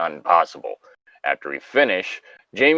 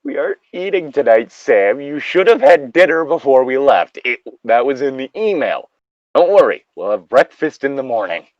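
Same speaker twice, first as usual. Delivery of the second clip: higher, louder exasperated leader voice; 4 semitones higher, 3 dB louder than usual. Acted. Jamie telling hungry Sam there's no food, exasperated. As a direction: lay down the rules, fed up.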